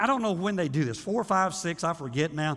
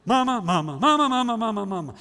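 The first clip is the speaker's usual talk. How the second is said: put-on whining child; 3 semitones higher, 4 dB louder, faster than usual. Child nagging mother.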